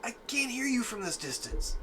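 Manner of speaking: high-voiced in-character call, falling at the end; high-pitched reply. Character answering from afar.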